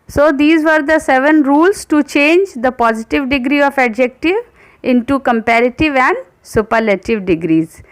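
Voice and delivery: slow, careful rule reading; slow dictation voice. Acted. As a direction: read the rule out slowly for students to copy.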